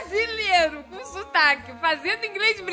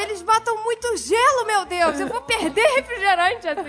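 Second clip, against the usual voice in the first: higher-pitched imitated fretting; mock complaint; 5 semitones higher than usual. Father fretting over too much ice, mock complaint. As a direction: fret like an aggrieved dad.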